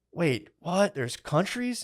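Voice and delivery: high, rising disbelief; stunned double take; surprised. Retold or imitated. Just learning countries exist: high stunned double take.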